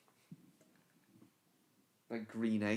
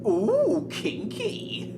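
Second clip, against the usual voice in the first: high squeaky ooh kinky; 8 dB louder, much slower than usual. Pretend. Saucy joke reaction.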